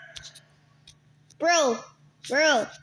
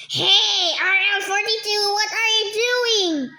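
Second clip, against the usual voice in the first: louder, higher, fast call-out; angry call; 4 semitones higher, 3 dB louder than usual. Real, not acted. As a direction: yell at the other player. Calling out angrily.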